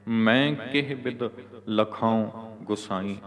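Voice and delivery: slow demo with ਲਖਾਉ ending in a nasal vowel; careful model reading, nasal ਲਖਾਉ. Shown as a demonstration. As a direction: set ਲਖਾਉ apart and nasalise its end. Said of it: "ਨਾਸਕੀ ਉਚਾਰਨ ਕਰਨਾ".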